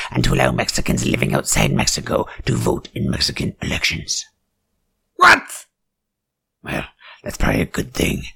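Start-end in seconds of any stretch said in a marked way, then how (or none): 5.2-5.7 sudden high yelp of disbelief; a startled squeak of outrage; shocked what. Acted. Comic reader yelps at the book, shocked.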